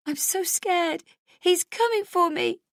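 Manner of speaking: put-on child Molly telling the police chief she is scared; frightened child. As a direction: sound small and terrified. Child voice in flashback.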